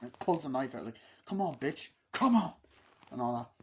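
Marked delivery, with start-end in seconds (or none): 1.2-2.5 taunting challenge. Retold or imitated. Character taunting to fight.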